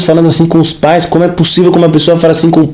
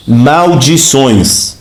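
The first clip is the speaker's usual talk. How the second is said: slow emphatic word; 4 semitones lower, much slower than usual. Shown as a demonstration. Preacher reveals the word's meaning, slow and weighty. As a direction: stretch Maldições out very slowly. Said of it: "também pode ser o quê?".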